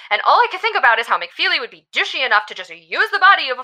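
words tumbling out fast; spiraling, running out of air; rushed and breathless. Acted. Grieving friend rants about the doctor, fast and breathless. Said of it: "Just breathe".

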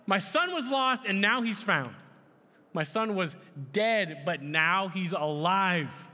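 mildly hammed-up rejoicing, stretched at the end; joyful father. Father announcing his lost son is back, joyful proclaiming.

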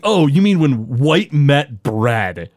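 slow, put-on mocking voice; Herb's sarcastic jab. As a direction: drawl out the insult like a sneering boss. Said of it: "he also delivers another amazing line".

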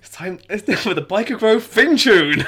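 high, very loud mock Geordie; Newcastle accent. Co-host joining in as Newcastle DJ, loud mock Geordie accent. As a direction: announce the tune in exaggerated Geordie. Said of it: "Was that Newcastle".

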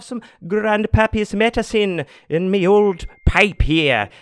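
high, loud, put-on old-timer voice; playful high-pitched character voice; hammed-up old-timer. Hammy old-timer bit about his pipe.

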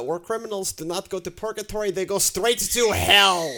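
a light put-on Russian accent, slowing on the last words; quoting the diplomat in a mock Russian accent. Host quotes the Ukrainian ambassador in a mild mock Russian accent. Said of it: "so I'll do my best Russian accent".

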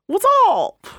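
showing what the sexy movie guy was like; cheesy bro greeting. Pretend. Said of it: "What was it like?".

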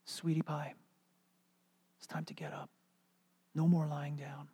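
soft, half-whispered wake-up; tender hush. Retold or imitated. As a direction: coax a sleeping child awake gently. Waking a child tenderly.

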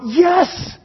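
high, loud rallying cry; excited cheer. Acted. Preacher voicing fans cheering superheroes on, excited. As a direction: proclaim it like a thrilled fan. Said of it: "No, we're going".

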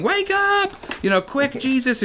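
put-on high, frantic shouting like scared kids; playful mock panic calls; imitating kids yelling. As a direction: yell to wake him up, fast and urgent. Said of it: "they're all yelling".

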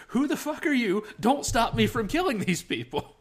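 quoting an angry outburst; angry yell. Retold or imitated. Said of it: "he turns around and says".

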